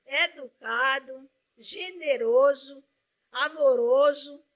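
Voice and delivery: grateful mother praising the volunteers slowly; emphatic praise. Real, not acted. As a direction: savor every virtue one by one. Praising library volunteers, each word.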